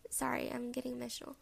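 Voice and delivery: real emotion, almost whispered; hushed, choked-up apology; getting emotional. Real, not acted. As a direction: apologize quietly, trying not to cry.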